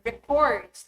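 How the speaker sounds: reCORDS, stressed on CORDS; verb stress. Shown as a demonstration. Teacher's example sentence, verb reCORDS stressed on second syllable. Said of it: "the second syllable receives the primary stress".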